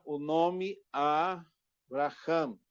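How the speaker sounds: Abraham drawn out slowly, syllable by syllable; slow careful Hebrew name. Shown as a demonstration. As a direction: spell out Abraham slowly for the class. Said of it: "aqui a palavra a".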